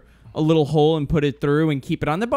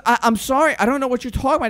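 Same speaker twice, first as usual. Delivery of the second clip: higher, polite puzzled voice; a lightly voiced lost woman; mock confused apology; 8 semitones higher, faster than usual. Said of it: "And she goes".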